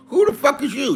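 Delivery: angry challenge. Real, not acted. Ranting at a chat critic, controlled angry challenge. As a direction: repeat the challenge high but without shouting.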